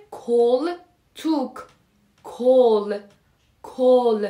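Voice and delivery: کل، توک with a full round "o": kol, tok; Turkish O examples. Shown as a demonstration. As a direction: drill کل and توک as separate words, kol and tok.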